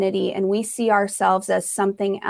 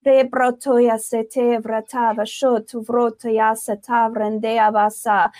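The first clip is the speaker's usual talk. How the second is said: speaking in tongues. Acted. Praying in tongues.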